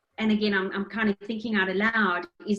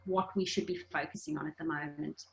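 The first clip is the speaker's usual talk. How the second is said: calm letting go; 4 semitones lower, 6 dB quieter than usual. Retold or imitated. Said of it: "let it go and go".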